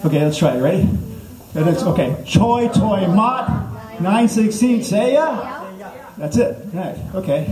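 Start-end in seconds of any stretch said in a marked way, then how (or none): 2.3-5.6 high, drawn-out mock annoyance; slow recitation with a kinda-mad edge; with attitude. Shown as a demonstration. Comic coaching crowd as unhappy stranded driver, mock annoyed recitation. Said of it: "say it with a little bit of attitude".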